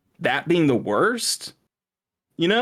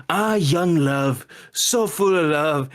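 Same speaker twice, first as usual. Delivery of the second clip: slow, drawn-out lovestruck musing, pitched up; lingering on each word, higher and wistful; dreamy soliloquy; 5 semitones higher, much slower than usual. Retold or imitated. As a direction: sigh it out like a blissfully oblivious romantic. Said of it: "like, his, like, little soliloquy".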